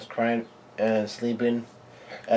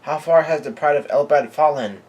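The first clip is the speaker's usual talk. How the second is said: higher, mildly raised retold shout; mock angry yell; 4 semitones higher, 4 dB louder than usual. Giant yells at Lord Mountbeard to kill Lilin, mock angry yell. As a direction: imitate an outraged giant yelling, held back. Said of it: "Hardbrugen is yelling out".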